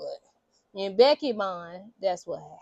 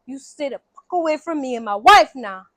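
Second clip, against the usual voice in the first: retold angry warning; pissed off; 2 semitones higher, 4 dB louder than usual. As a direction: imitate a man firmly warning her off. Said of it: "it pisses him off".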